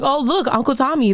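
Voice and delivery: lightly voiced small child. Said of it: "I was like".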